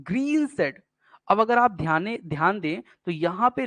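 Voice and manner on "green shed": high drawn-out "green", then weighty "shed"; spondee stress. Shown as a demonstration. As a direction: give "green" and "shed" a full beat each. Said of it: "शेड में क्या है". ("green shed" दोनों पर ज़ोर)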